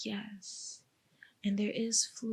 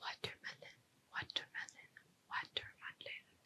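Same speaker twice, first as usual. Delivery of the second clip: barely audible, very quiet whisper. Testing whether the listener can hear soft words, whispering. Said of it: "so I'm gonna do whisper some words".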